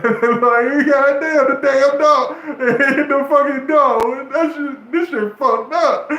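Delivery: high, loud laughing shout at the dog; cracking up while swearing; laughing outburst. Real, not acted. Laughing loudly while recounting the dog video.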